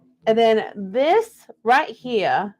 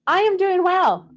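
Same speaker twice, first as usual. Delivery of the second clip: Southern Belle; 9 semitones higher, 4 dB louder than usual. Pretend. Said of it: "Southern Belle thing".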